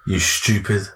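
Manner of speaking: slow, contemptuous "You stupid cunt"; demeaning insult. Shown as a demonstration. Showing the demeaning English way, slow and contemptuous. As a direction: drag it out to put him down. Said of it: "The way the English say it is really demeaning".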